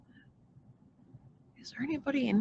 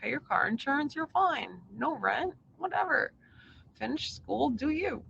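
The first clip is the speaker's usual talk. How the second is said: higher, easygoing hype-man offer; eager pitch; 5 semitones higher than usual. Retold or imitated. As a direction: sell the deal like a buddy. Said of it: "And I was like".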